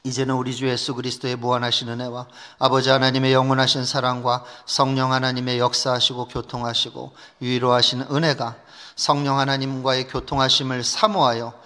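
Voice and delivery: measured, level-pitched public prayer; closing prayer. Real, not acted. Pastor prays to God for the young people, solemn petition. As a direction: pray solemnly, phrase by phrase.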